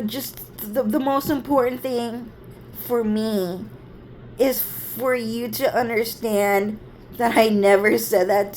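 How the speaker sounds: halting, wounded pleading; imitating tearful sister. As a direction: plead with a little sibling, voice rising at the end. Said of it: "she would just start crying".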